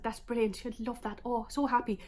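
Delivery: attempted Irish accent for her dad; a hint of an Irish lilt. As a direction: imitate an Irish dad, lightly and unsurely. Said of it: "He's Irish, by the way. I don't know what that sounded like".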